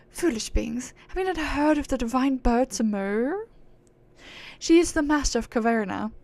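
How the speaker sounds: haughty aristocratic British; scornful, high-and-mighty British accent. Acted. Proud being scorning mortals for chasing reward, haughty British accent. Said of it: "she's acting all high and mighty".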